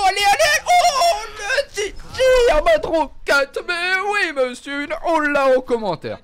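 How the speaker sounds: high excited yelling with laughs; excited shouting. Real, not acted. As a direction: shout with joy at the play. Excited over a rocket kill.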